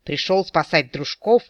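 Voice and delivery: ordinary delivery, nothing marked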